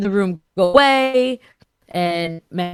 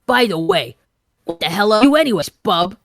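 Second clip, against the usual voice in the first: lightly voiced gruff Wolverine, faster; 4 dB louder, faster than usual. Shown as a demonstration. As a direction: read it fast and pushy like Wolverine. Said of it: "let me read it in his voice".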